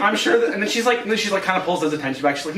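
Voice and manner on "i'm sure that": mildly huffy retelling, pitched up; petty, slightly offended. Retold or imitated. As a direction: lightly act out being a bit put out. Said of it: "kinda petty and, like, slightly offended".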